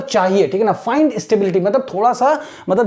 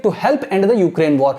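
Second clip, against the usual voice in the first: slow, careful reading; much slower than usual. Shown as a demonstration. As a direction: spell out each word slowly. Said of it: "imitate करना है the way I am reading".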